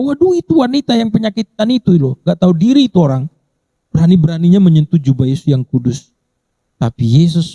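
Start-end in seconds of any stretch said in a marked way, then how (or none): 0.0-6.1 scornful gossip. Retold or imitated. Gossiping crowd voiced scornfully.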